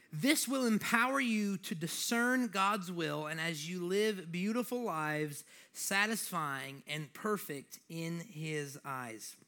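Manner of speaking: slow, deliberate, emphatic Bible reading; scripture reading. Real, not acted. Preacher reading Romans to the congregation, deliberate scripture reading.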